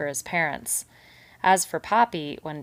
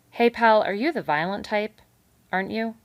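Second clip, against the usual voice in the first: hearty beaver; 5 semitones higher, 6 dB louder than usual. A narrator's reading. Beaver mock-alarmed at mouse.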